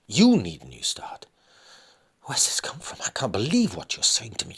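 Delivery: high, loud and fast, reeling from the news; stunned wife cannot believe it; shocked disbelief. Acted. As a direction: throw his words back at him, aghast. Wife shocked by husband leaving.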